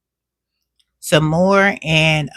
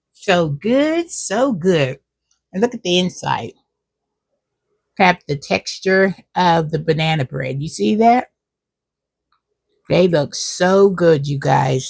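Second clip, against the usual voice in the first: talking around a mouthful of cookie; mouth full. Real, not acted. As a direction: speak while still chewing. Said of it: "talking with my mouth full".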